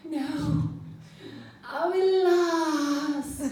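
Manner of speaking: put-on a kid about to cry; near tears. Girl insisting they're lost, voice crying. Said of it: "And she'd say".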